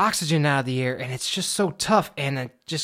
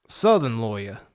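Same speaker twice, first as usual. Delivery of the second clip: Southern accent; 5 semitones lower than usual. Shown as a demonstration. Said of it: "when I do a southern accent".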